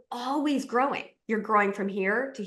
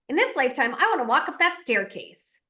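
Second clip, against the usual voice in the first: lightly voiced puppy, a touch higher and keen; a hint of a toddler vowing to climb; determined little puppy; 5 semitones higher than usual. Toddler vowing to climb the stairs, lightly voiced and keen. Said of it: "they're like".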